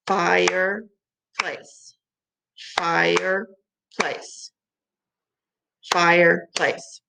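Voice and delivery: "Fireplace" stretched out slowly, FIRE-PLACE; slow syllables. Shown as a demonstration. Teacher slowly sounding out fireplace for the kids. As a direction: draw out "Fireplace" beat by beat. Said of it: "syllable demo".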